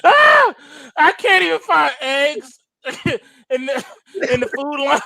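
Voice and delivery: high squeal of laughter, then words through laughs; breaking up while talking; real laughter; laughing fit. Real, not acted.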